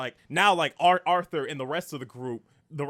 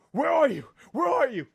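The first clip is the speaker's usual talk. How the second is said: higher, louder searching call; 11 semitones higher, 10 dB louder than usual. Retold or imitated. Ash hunting the killer at the motel, loud calling out. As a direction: call out for someone hiding.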